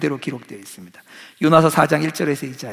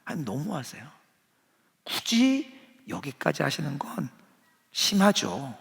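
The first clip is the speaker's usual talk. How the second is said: muttered complaint; 7 dB quieter than usual. Retold or imitated. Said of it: "이렇게 말하고 있는 겁니다".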